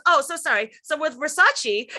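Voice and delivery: "Versace" still ending in "chee"; interviewer's mispronunciation. Retold or imitated. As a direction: say "Versace" as ver-SAH-chee, oblivious. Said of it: "the interviewer then goes".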